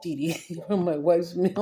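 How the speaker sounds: giggling through the movie quote; laughing. Retold or imitated. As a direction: laugh while quoting.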